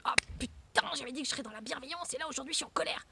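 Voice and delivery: breathy, hurried self-scolding, partly whispered; a person beating themselves up under their breath; self-reproach. Pretend. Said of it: "Va pas te flageller".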